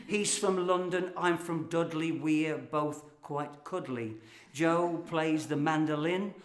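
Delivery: light rhythmic recitation of a funny poem; comic poem reading. Acted. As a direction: perform the verse for laughs.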